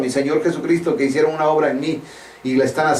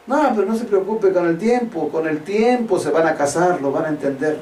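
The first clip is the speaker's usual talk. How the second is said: mock reassurance; 2 semitones higher than usual. Preacher imitates pastors excusing unmarried couples, lightly mocked reassurance. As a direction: brush the worry away as an imitated pastor.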